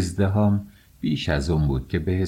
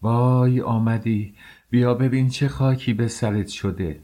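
wailing cry; 5 semitones higher, 3 dB louder than usual. Acted. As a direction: cry out in grief, dragging the first words. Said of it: "فریاد زد".

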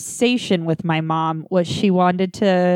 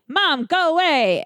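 high strained plea; pleading to go away; 9 semitones higher than usual. Retold or imitated. Telling her dead mom at the door to go, high pleading. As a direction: beg the ghost to leave, voice pitched up.

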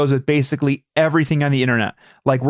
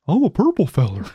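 Grimace voice; 3 semitones higher than usual. Pretend. S0 plays Grimace too.

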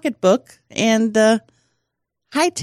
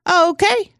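higher, startled little okay; mock startled; 11 semitones higher than usual. Friend imitating her startled reaction to crying. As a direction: act caught off guard by tears. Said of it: "And you're like".

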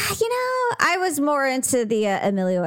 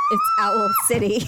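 shouting. Retold or imitated. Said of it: "And he says".

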